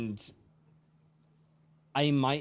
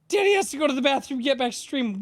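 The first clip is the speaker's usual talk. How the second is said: high, fast cartoon alien voice; squeaky Stitch impression; 12 semitones higher, 6 dB louder, faster than usual. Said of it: "and I'm like".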